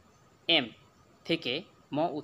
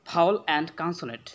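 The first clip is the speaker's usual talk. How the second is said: slow careful English; 2 semitones higher, 3 dB louder, much slower than usual. Shown as a demonstration. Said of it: "teacher introduces new topic".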